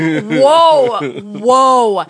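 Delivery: drawn-out amazed whoa, whoa; surprised. Retold or imitated. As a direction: react like you can't believe your ears. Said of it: "I was like".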